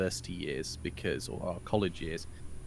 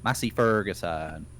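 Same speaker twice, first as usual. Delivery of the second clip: lightly imitated West Country rolled R's; West Country farmer accent; 3 semitones lower than usual. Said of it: "She'll roll her R's".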